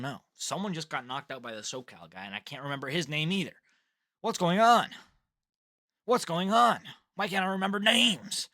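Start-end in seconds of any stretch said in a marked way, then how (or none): 4.2-8.5 exasperated outcry. Real, not acted. Frustrated at forgetting fighters' names.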